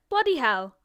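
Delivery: lightly put-on British "Bloody hell"; a hint of a British swear; bad British accent. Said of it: "Those were bad impressions".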